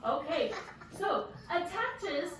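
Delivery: teacher slowly restating the new word; slow, stretched-out "attaches". Shown as a demonstration. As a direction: drag "attaches" out gently. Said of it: "modeling the word".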